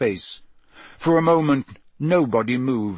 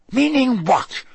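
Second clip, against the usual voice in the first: sharp challenge; 11 semitones higher, 4 dB louder than usual. A narrator's reading.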